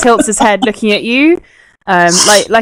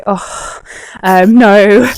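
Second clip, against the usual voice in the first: bashful creature; much slower than usual. Acted. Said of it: "sort of to go".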